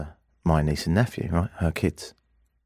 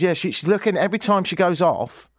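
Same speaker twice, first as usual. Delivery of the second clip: put-on babysitter voice; 8 semitones higher, 4 dB louder than usual. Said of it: "She says".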